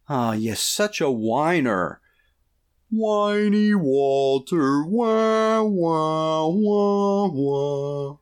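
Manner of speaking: drawn-out, high, wailing taunt; mocking dad. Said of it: "his catchphrase should be".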